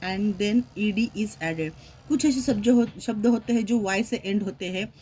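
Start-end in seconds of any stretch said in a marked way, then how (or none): 0.0-1.7 slow, deliberate reading of a grammar rule, word by word; dictating a rule to a class at a slow pace. Shown as a demonstration. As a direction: read the rule out slowly, as if for dictation. Reads a grammar rule aloud.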